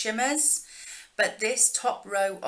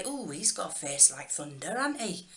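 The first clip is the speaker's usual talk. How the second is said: soft native Yorkshire accent slipping out; 3 semitones lower, 5 dB quieter than usual. Explaining a UK saying: Yorkshire accent coming out. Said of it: "That's my Yorkshire accent coming out".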